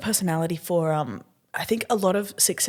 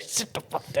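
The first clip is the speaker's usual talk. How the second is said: whispered diss; 3 semitones lower, 8 dB quieter than usual. Retold or imitated. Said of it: "Be like".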